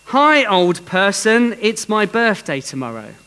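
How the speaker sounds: put-on calling out high and loud like a small child; a little girl shouting cheerfully across the shop; excited shout. Little girl greeting a stranger in the grocery store, loud and excited. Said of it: "Sarah exclaims at the top of her voice".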